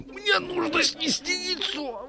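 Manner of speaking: high slow hen voice. Shown as a demonstration. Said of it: "Надо было так".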